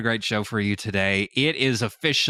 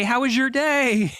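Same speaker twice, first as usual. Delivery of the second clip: high, sweet, slower "how was your day"; sweet housewife voice; 14 semitones higher than usual. Retold or imitated. Wife greets husband coming home in Minecraft, high and sweet. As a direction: play the doting wife, lilting high. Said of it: "I look over at him and say".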